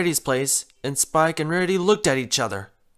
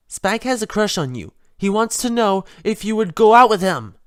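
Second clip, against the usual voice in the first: blunt; 5 semitones higher, 4 dB louder than usual. Acted. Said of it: "Twilight said bluntly".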